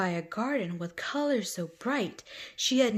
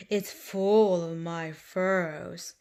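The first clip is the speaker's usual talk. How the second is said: mole; 2 semitones lower, 3 dB louder, slower than usual. Acted. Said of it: "groaned the mole".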